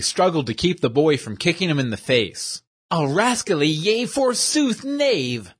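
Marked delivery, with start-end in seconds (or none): 2.9-5.5 grunted insult. Acted. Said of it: "he grunted".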